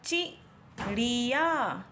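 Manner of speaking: चिड़िया read slowly, sound by sound; slow spelled-out reading. Shown as a demonstration. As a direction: draw out चिड़िया carefully, syllable by syllable. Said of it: "तो इसमें से कौन सा सही होगा?".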